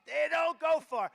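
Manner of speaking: loud punchline repeat; emphatic. Shown as a demonstration. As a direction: hammer it home as fact. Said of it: "That's about as accurate".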